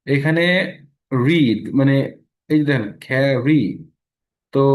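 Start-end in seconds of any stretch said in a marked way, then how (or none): 3.1-3.6 slow "carry" with the r sounded; model word. Shown as a demonstration. Teacher modelling "carry" for the class. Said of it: "রা sound আছে".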